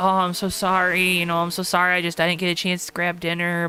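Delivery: acted, mock-apologetic tone. Speaker acting out how he apologizes to them about the show, mock-apologetic. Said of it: "he's like all apologetic".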